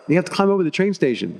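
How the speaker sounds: put-on high-pitched French accent. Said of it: "In his French accent".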